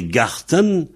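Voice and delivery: garten said the German way, hard T; German word. Shown as a demonstration. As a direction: garten in a German sound, slowly. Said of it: "En allemand".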